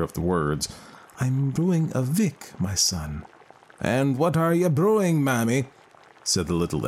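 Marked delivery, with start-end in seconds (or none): 1.2-3.3 grieving mother voice. Acted. Mother answers the fairy. 3.8-5.7 put-on a changeling speaking like an old man. Fairy asks again.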